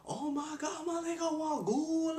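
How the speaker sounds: put-on high-pitched teen chatter; teen girl gossip voice. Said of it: "talking their usual talk".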